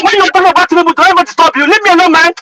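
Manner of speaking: real heated argument; angry protest. Real, not acted. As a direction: push back hard at the interrupter. Heated quarrel over being interrupted.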